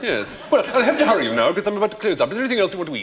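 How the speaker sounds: borrowed upper-class Southern English; posh English accent. Acted. Server hurrying customer at closing time, posh English. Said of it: "now I've got your accent".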